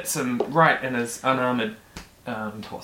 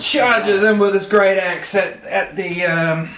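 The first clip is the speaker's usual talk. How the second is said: raised, dramatic scene setting; game master's combat narration; 6 semitones higher, 4 dB louder, slower than usual. A narrator's reading. Game master describing a charging attacker to players, dramatic narration. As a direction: drive the attack forward with a higher voice.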